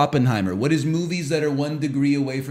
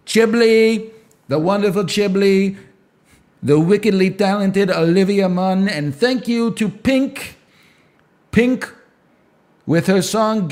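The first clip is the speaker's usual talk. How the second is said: higher hammed-up Trump rally hype; busted Trump impression; 4 semitones higher than usual. Streamer keeps up his busted Trump impression. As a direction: list guests like a rally lineup. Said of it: "my busted Donald Trump impression".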